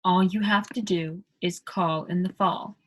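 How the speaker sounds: British accent, "call" and "fall" with a round aw; British vowels. Shown as a demonstration. Teacher demos British vowels to learners. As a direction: round the A's into O's. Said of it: "all of those A's are sounding like O".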